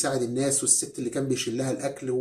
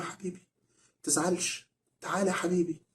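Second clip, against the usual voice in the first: tender comforting; 5 dB quieter than usual. Retold or imitated. Father comforts upset son.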